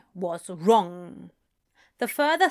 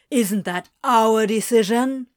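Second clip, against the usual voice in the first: louder, defiant challenge; near shout; 7 dB louder than usual. A narrator's reading. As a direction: push back hard at him. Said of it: "Crowley nearly shouted".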